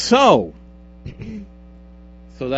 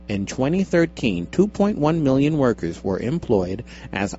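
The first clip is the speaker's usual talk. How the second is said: measured article-reading voice, a touch lower; read-aloud impression; 3 semitones lower than usual. Host reading a survey article to co-host, radio read-out. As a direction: read it out like a radio personality, lightly. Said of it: "That's exactly what that person sounded like".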